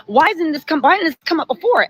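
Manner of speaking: retold judge's testy cross-questioning; imitated snapping. Judge snaps on the prosecutor over late exhibits, mock exasperation. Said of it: "he snaps on her".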